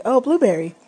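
light imitation of a child getting it; happy realisation. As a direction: daughter suddenly getting the word. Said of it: "And she was like".

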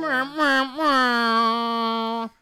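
loud high meowing; cat meow. Pretend. Silly sound effects.

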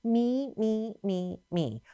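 chanted list of I and me, fading; lightly mocking, repetitive self-obsession; Satan's self-centeredness. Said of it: "Do you notice how he said".

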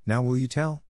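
breathless, panting question; out of breath. A narrator's reading. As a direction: gasp it out after the swim. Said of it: "all out of breath".

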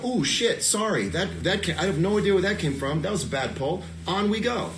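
breezy apology. Shown as a demonstration. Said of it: "And you go".

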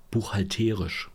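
buchhalterisch said slowly with a long, stressed TE. Shown as a demonstration. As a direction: carefully sound out buchhalterisch, stressing "te" as "TEH-rish". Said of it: "dass ich's richtig ausspreche".

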